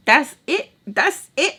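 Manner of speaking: high, loud eager cheering; hyped. Retold or imitated. Teller cheering when friends want to fight, high loud hype. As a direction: egg the fight on gleefully.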